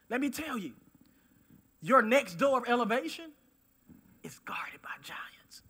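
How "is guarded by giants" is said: slow, near-whispered punchline; hushed reveal. Real, not acted. Preacher revealing what guards your elevation, hushed reveal. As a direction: drop low and very soft, drawing it out.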